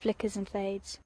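softly repeated refrain, trailing off; fading echo. Acted. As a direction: let it fade like a far-off echo.

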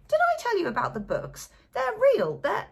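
forgetting he already said it, tipsy and thrilled; drunken repetition. A narrator's reading. Drunk repeats himself.

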